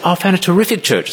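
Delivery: gushing enthusiasm. Retold or imitated. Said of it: "They say".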